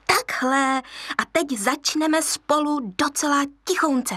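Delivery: high, chirpy hyena voice, laughing as she coaches; little hyena teacher. Acted. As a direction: egg the cub on like a giggly young hyena.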